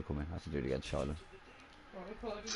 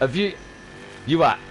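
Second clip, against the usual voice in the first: high, loud imitation of a baffled child; dead confused; 7 semitones higher, 4 dB louder than usual. Daughter looking at dad, imitated loud confusion. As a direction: mimic stunned disbelief. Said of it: "dead confused".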